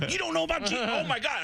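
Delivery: high, eager retelling; excited disbelief. Retold or imitated. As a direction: act out amazed eagerness to share gossip. Retold reply to astonished fan.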